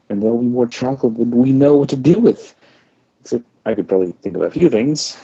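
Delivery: bright and eager, trying hard; forced cheer. Acted. Sister through the door, forcing cheerful excitement. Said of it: "My voice fought to stay cheerful".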